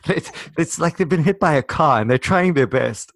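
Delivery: high burst of laughter spilling into the words; laughing. Real, not acted. Laughing while retelling the friend's harsh verdict on his accent.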